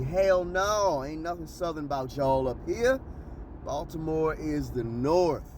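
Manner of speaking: mild imitation of a blunt southern woman; blunt no-chaser retort. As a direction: shoot it straight back like a lightly voiced Alabama lady. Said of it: "straightforward, no chaser, she told me".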